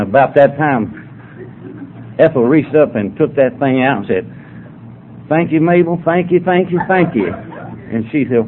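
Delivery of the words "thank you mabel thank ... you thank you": put-on old lady voice. Voices old lady thanking her friend.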